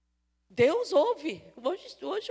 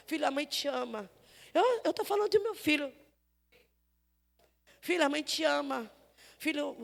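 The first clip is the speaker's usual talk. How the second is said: tender blessing. Acted. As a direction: bless the son gently. Mother blessing her son.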